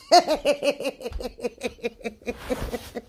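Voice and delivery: long rattling laugh fading out; staccato laughing fit; real laugh. Real, not acted. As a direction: crack up after the punchline. Laughs at own remark.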